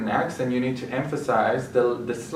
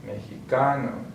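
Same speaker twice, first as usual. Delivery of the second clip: mexicano stressed on CA; mexi-CA-no, lean on the next-to-last syllable; penultimate stress. Shown as a demonstration. Teacher repeating examples after the rule, penultimate stress. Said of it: "stress on the second to last syllable".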